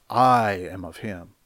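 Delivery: "I" leaned on, the rest falling; stress on I. Shown as a demonstration. Preacher quoting those exalting themselves, stressed "I". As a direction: put the weight on "I". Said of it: "They're exalting themselves".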